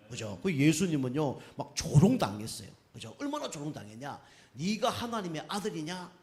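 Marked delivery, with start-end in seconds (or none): 4.5-6.1 mild mock challenge, higher pitched. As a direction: imitate scoffers taunting, lightly raised voice. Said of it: "뭐 조롱한 거예요".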